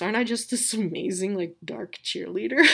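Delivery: laughs through her own joke; self-mocking chuckle at the end; laughing at herself. Real, not acted. Podcast mom jokes about her dark pep talk, laughing. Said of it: "Aren't I really good at pep talks".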